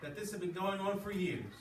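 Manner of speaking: expressive read-aloud to a class; story reading. A narrator's reading. Teacher reading a novel aloud to the class, expressive. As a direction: read the story with feeling for the students.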